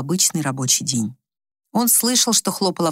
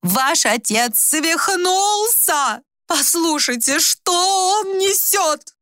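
outraged cries; 11 semitones higher, much slower than usual. A narrator's reading. Wife screams to the children that father has gone mad. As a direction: rouse the household in a panic.

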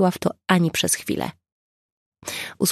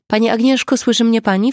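louder, higher call to a fainting woman; raised voice, rousing an unconscious woman; loud and clear; 6 semitones higher, 6 dB louder than usual. A narrator's reading. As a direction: call out clearly so she hears. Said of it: "powiedziała głośno i wyraźnie".

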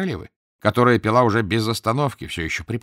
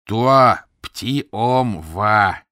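queen's broken French; 6 dB louder, much slower than usual. Acted. Savage queen speaks broken French.

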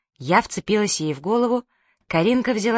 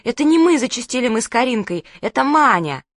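panicked; 5 semitones higher, 4 dB louder than usual. Acted. Girls panicking to mother.

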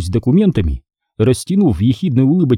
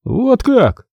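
high, surprised "вот как"; 11 semitones higher than usual. A narrator's reading. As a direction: sound caught off guard. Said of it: "удивился он".

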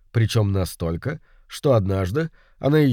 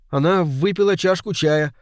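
put-on high, distinct boyish voice; clear ringing voice; 6 semitones higher than usual. A narrator's reading. Boy answers the detective, clear and ringing. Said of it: "Голос Джонни прозвучал отчётливо и звонко".

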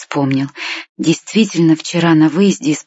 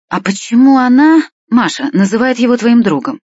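high, louder disbelief; astonished question; 6 semitones higher, 4 dB louder than usual. A narrator's reading. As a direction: grandmother baffled and taken aback. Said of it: "изумлённо спросила бабушка".

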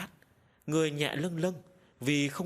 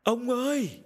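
high, drawn-out raised call; loud calling out; 10 semitones higher, 5 dB louder, slower than usual. A narrator's reading. Wife on the porch calling her missing husband, loudly. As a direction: holler for him from the porch. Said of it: "gọi lớn".

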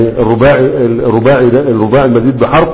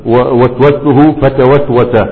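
slow dictation; much slower than usual. Shown as a demonstration. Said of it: "يبقى تقول ايه؟".

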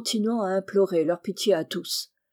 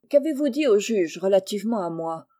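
ordinary delivery

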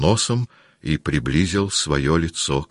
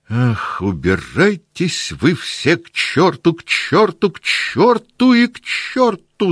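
angry shout; 12 semitones higher, slower than usual. A narrator's reading. Old count yells at Berg to get out, furious rising shout. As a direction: drive them all out in a rising furious yell. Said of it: "закричал старый граф".

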